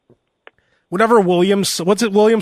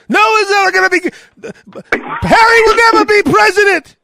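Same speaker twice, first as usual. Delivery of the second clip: pompous royal; 13 semitones higher, 5 dB louder than usual. Pretend. The speaker ranting as mock royal.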